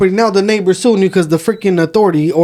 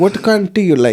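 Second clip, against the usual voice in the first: put-on Indian accent. Retelling a man who invited the speaker home for tea, in a put-on Indian accent. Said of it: "so I'm supposed to make an Indian one".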